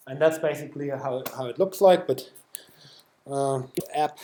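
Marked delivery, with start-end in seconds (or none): 3.3-4.2 whispering. Real, not acted. Muttered aside during demo setup.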